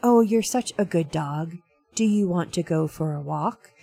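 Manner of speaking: flat, even pitch with no lift; monotone voice. Shown as a demonstration. Host demonstrating the monotone dog recording, level and even. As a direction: say it dead level, no sing-song. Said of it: "in a monotone voice".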